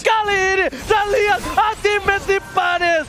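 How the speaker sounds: hype shout. Real, not acted. Caster hype at a team fight.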